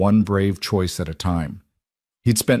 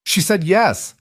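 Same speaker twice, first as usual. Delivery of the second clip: excited scream; 11 semitones higher, slower than usual. A narrator's reading. Emma seeing Karen's face after the proposal, screaming with excitement. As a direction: shriek the happy news like a thrilled kid. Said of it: "and screamed".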